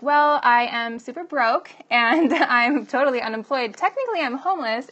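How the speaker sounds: loud, emphatic oversharing; blunt comic confession. Retold or imitated. Single mom answering small talk too honestly, in loud comic candour. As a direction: announce your troubles with comic frankness. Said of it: "I'd be like".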